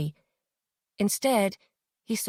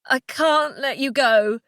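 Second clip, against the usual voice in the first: crying softly; 4 semitones higher, 4 dB louder, slower than usual. Acted. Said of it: "He was crying, and his voice was oddly low and soft".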